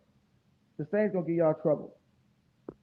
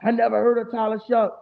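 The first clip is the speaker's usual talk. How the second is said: mock Patriots fan; 4 semitones higher, 4 dB louder than usual. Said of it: "some delusional ass Patriots fan".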